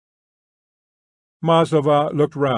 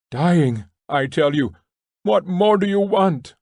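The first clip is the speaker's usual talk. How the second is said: screaming prisoner; 6 semitones higher than usual. A narrator's reading. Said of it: "someone else was screaming".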